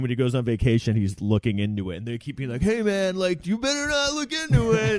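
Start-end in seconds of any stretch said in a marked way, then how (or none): 2.6-5.0 high-pitched imitation of a warning; mock scolding boss. Bosses warning a cop who investigates on vacation, mock scolding. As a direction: warn him off in a squeezed-up movie-boss voice.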